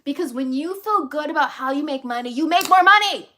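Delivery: rising to a loud, excited peak; emphatic build. Real, not acted. Speaker hyping women about money, building to excited emphasis. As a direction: drive the point home harder and harder.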